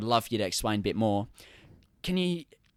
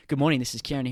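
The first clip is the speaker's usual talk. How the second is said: bright formal phone voice; phone greeting; 3 semitones higher, 4 dB louder, much faster than usual. Shown as a demonstration. Answering the phone at work, crisp formal greeting. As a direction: answer the call like a receptionist. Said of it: "that vocal tone".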